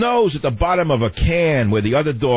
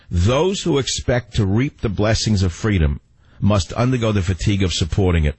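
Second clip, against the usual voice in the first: slow reread. Shown as a demonstration. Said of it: "I'll read it again for those of you who didn't get it".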